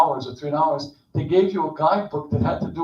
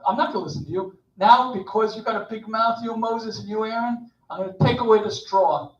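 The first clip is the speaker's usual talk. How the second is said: higher, mock-indignant ranting king; scornful Pharaoh; 5 semitones higher than usual. Pharaoh scorns Moses and Aaron, hammed-up indignant rant. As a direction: sneer at the shepherd like a tyrant. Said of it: "Pharaoh does what Pharaohs do".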